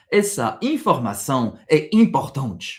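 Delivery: careful Brazilian Portuguese model sentence; teacher models the Portuguese line clearly. Shown as a demonstration. Teacher models Portuguese for a French learner, clear Brazilian Portuguese. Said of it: "je vais donner un autre exemple".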